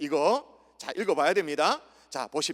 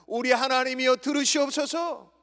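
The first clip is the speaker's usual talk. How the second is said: higher-pitched appeal to God; pleading prayer; 5 semitones higher, 3 dB louder than usual. Acted. Preacher shows Nehemiah is praying, higher pleading prayer. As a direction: cry out the verse as prayer. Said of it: "기도하고 있는 거예요".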